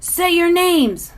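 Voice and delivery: slow, high, loud command; demanding. Acted. Unseen guardian demanding names, slow and loud. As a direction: lay down the order word by word. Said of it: "the voice demands".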